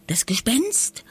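breathless, scared whisper; frightened whisper. A narrator's reading. Lisa to her brother in the dark, scared whisper. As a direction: whisper it so the ghost can't hear. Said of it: "wisperte Lisa".

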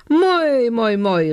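high, delicate sing-out; tiny calling voice. A narrator's reading. Little voice from the garden calls the elf, delicately. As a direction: call out high, falling away gradually. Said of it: "rief ein zartes Stimmchen aus dem Garten".

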